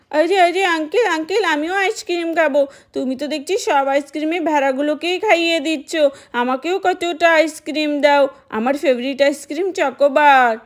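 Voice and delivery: put-on a small eager child pleading with the ice cream uncle; little kid asking sweetly for a chocobar.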